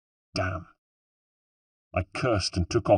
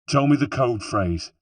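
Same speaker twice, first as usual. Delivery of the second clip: firm; 3 semitones higher than usual. Acted. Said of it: "he said firmly".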